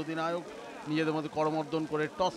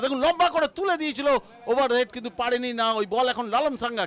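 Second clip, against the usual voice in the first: frantic football commentary; 4 semitones higher, 4 dB louder than usual. Real, not acted. Live attack commentary.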